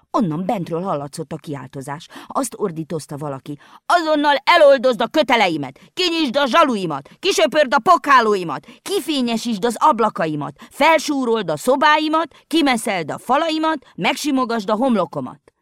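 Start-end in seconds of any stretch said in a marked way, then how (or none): 3.9-15.5 high, loud commanding screech; the old house screeching orders at the girl; rasping screeching voice. A narrator's reading. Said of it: "Reszelős, rikácsoló hang volt".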